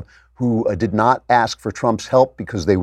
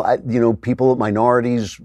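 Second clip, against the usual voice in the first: ordinary talk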